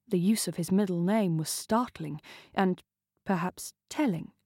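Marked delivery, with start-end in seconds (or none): none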